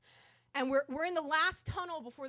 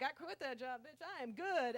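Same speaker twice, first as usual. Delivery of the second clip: cool comeback; 6 dB quieter than usual. Retold or imitated.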